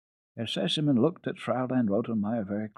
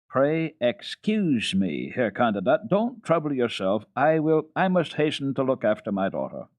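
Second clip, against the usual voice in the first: louder, hasty interrupting father; hurried father; 5 semitones higher, 4 dB louder than usual. Acted. Father escaping the tutor, louder and hasty. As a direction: cut him off and hurry away.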